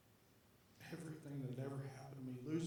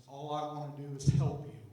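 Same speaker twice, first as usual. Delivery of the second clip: loud frustrated scream at his son; 3 semitones higher, 14 dB louder than usual. Retold or imitated. Father screaming at his crying son in the tub, a furious loud yell. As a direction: yell it with everything, at the top of your lungs. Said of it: "I scream at the top of my lungs".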